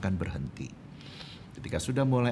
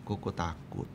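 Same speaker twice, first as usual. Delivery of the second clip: put-on small, low, quiet voice of a scared child; anak ketakutan; 5 semitones lower, 8 dB quieter than usual. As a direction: answer timidly, much softer. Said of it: "Anak saya itu berkata kepada saya". (suara anak yang pelan dan takut)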